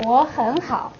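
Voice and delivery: 我很好 with 很 rising; second tone on 很. Shown as a demonstration. Teacher demonstrates tone sandhi, 很 rising in 我很好. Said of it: "you really say a second tone".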